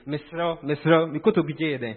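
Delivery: slow, drawn-out pleading; acted earnest entreaty; earnest begging. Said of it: "Like you are begging someone, earnest entreaty".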